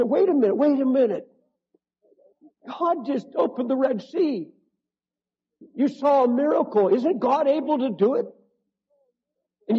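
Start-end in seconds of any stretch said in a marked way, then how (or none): 0.0-8.3 urgent appeal. Pretend. Pleading with the angry crowd.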